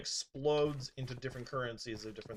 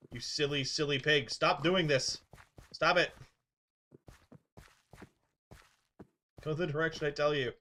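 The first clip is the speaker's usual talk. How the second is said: louder, exasperated scolding; mock scolding pig; 3 semitones higher, 3 dB louder than usual. Streamer to stubborn pig, louder playful scolding. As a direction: tell off a stubborn pig, half laughing.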